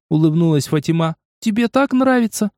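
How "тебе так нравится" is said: put-on high, sweet little-girl voice; child voice. Fatima teasing Newton in a high child's voice. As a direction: tease him like a small girl. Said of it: "добавила она детским голосом".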